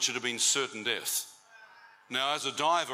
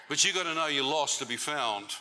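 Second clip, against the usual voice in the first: preaching shout; 2 semitones higher than usual. Real, not acted. Preaching climax.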